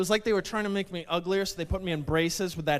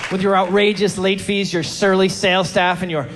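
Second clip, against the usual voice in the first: furious rant; 3 semitones higher, 6 dB louder than usual. Acted. Ranting at Blockbuster.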